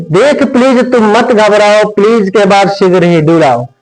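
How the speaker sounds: sing-song rhyming chant of the verse; rhythmic teacher reciting a memory poem; poem recitation. Acted. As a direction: recite it like a classroom rhyme.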